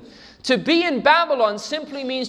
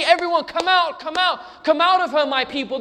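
raised, higher call to come out; calling people out; 8 semitones higher than usual. Acted. Preacher calling people out of Babylon, raised urgent call. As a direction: call them out urgently, like a rescuer. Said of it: "running inside buildings and say".

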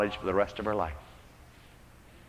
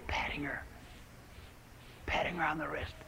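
whispered narration; 2 semitones higher, 16 dB quieter than usual. Real, not acted. Hushed narration inside the quote.

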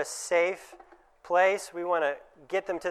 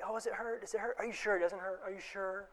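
doting mom; 3 semitones higher, 10 dB quieter than usual. Retold or imitated. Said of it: "when mom's like".

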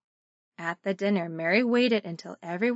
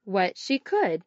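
sunday school teacher; 4 semitones higher than usual. Shown as a demonstration. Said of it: "let's try it together".

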